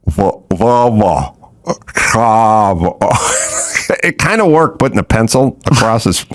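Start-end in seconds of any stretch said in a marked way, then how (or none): 0.1-3.0 slow, labored Volvo and Saab; mock careful attempt. Barber tries Volvo with a pencil in his mouth. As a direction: sound it out around a pencil. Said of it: "He's like".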